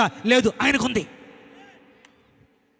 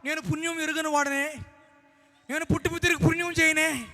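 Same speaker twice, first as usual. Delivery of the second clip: doubting believer; 4 semitones higher than usual. Retold or imitated. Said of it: "అనకూడదు".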